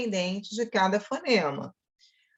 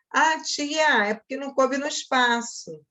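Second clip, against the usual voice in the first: put-on high pleading kid's excuse; whiny student excuse; 6 semitones higher than usual. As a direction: play the kid pleading with the teacher. Student excuse voiced to teacher. (aluno choramingando para a professora)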